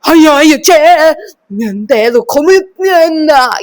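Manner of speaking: slow, strange chanted nonsense; eerie gibberish. Retold or imitated. Telling viewers about the dream woman, imitating her slow eerie gibberish. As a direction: drag out weird possessed syllables. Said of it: "ये सब कुछ वो बोल रही है".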